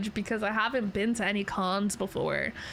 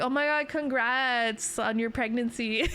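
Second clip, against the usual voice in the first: laughing mock reply; 2 semitones higher than usual. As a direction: fake congrats breaking into laughter. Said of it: "the replies are like".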